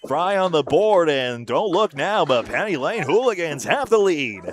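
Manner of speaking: slow, drawn-out sportscaster call; measured, building commentary; play-by-play. Real, not acted. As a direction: stretch the words as you announce the lead change.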